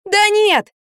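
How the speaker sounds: high loud irritated shout; fed-up woman shouting at a dim helper; angry yell. A narrator's reading. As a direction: yell at the slow man. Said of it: "заорала я, злясь".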